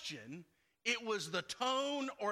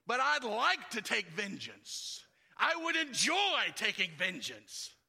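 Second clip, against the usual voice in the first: mock gleeful craving; 3 dB louder than usual. Preacher voices fleshly desire.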